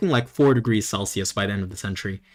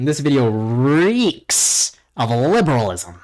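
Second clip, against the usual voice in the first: snooty commenter voice; slower than usual. Acted. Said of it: "let me read this comment out".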